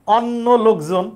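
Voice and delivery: "অন্য" as "awnno" in the phrase; wrong open vowel. Shown as a demonstration. Teacher showing a mistaken phrase, open-vowel awnno. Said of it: "অন্যরা এসে বলি না".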